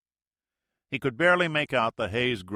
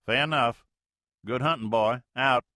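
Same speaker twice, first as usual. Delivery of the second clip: folksy Mississippi skipper talk, loud; Mississippi accent; 5 semitones higher, 6 dB louder than usual. Acted. Major answers the Navy plane in Mississippi accent, loud and folksy. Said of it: "The major's Mississippi accent".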